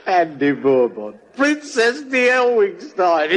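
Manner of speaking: laughing mockery of the name; mocking through laughter. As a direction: savour the fake title mockingly. Mocking repeat of fake name.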